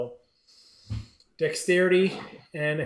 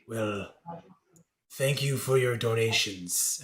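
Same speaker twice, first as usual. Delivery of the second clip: satisfied creature god; 3 semitones lower, slower than usual. Acted. Game master thanks as the god.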